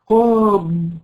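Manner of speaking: قاب said as a heavy pressed ض; demo of the ض sound. Shown as a demonstration. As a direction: press the tongue edge and say قاب as ضاب. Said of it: "قولي كلمة".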